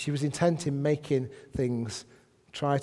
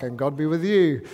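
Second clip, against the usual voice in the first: louder chorus answer in a changed voice; class shouting back; 5 dB louder than usual. Pretend. Classmates answer the pupil, chorus reply. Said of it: "everyone shouts back".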